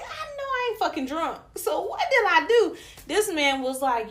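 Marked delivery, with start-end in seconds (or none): 0.0-2.8 high-pitched indignant bewilderment; retold baffled protest. Her defending herself in the car, high baffled retold protest. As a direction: push it up high as a mock-baffled objection.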